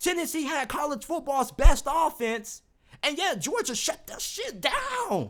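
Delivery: heated, worked-up, riled-up rant, pitch rising. Talking college football, the speaker admits being riled up right now. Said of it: "I'm sorry I sound so riled up right now".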